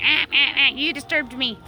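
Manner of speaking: imitating a complaining hen; mock hen yelling. Owner voices the hen she disturbed, mock yelling. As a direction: squawk the first sounds like an annoyed hen. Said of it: "yelling at me, going".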